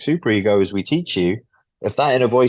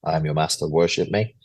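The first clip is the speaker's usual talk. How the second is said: joking master; 5 semitones lower than usual. Retold or imitated. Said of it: "They might jokingly say".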